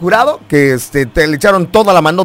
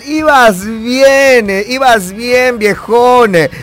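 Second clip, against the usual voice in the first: mock disappointment; 7 semitones higher, slower than usual. Real, not acted. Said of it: "caller ends with siempre Messi".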